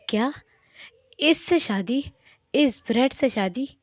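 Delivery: scornful disbelief, pitch rising into each question; incredulous. Acted. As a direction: throw it back as an outraged question. Acted son shocked at marriage demand.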